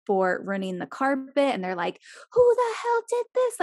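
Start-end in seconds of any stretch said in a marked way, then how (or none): 2.3-3.6 high-pitched mock yell, a bit louder; mock screaming. Co-host mimics parents blaming their kid, high mock yell. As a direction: imitate furious parents yelling, without a full scream. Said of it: "just screaming at the top of their lungs".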